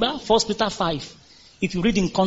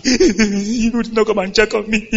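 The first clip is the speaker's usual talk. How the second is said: mock complaint; 2 semitones higher than usual. Mock pity party whine.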